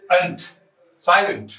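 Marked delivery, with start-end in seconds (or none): 0.1-0.4 "अंत" cut off as a syllable by itself; syllable demonstration. Shown as a demonstration. Teacher showing the second syllable of silent, isolated sound. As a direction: sound out only the ending "अंत", standing alone. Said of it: "दो syllable हो गए".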